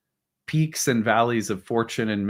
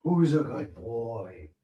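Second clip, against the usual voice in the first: slow, soft praise for a dog; pet praise voice; 6 dB quieter, much slower than usual. Real, not acted. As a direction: coo it slowly to the puppy. Praising dog after it obeys.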